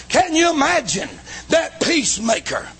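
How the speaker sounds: full-force preaching. Acted. Preacher thundering to the congregation, full force. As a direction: preach it out to the whole church.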